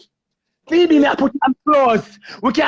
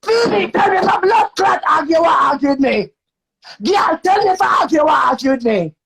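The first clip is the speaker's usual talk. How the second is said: angry shouting. Real, not acted. Shouting at her partner on a live stream, furious. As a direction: demand she answer, yelling. Heated live argument with girlfriend.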